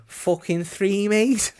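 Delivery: slow, high mocking voice. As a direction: drag it out, mocking. Mock answer in the voice.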